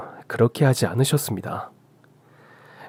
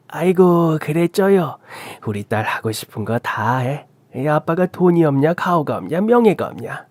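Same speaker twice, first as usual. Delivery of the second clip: lightly voiced indulgent dad; a hint of swaggering fatherly pride; doting father-in-law, boastful; 3 semitones higher than usual. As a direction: humour your daughter, then show off a little. Father-in-law indulges his daughter.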